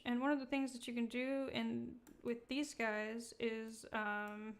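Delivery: halting, stumbling over the words; stuttering. Real, not acted. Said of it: "I'm stuttering so much today".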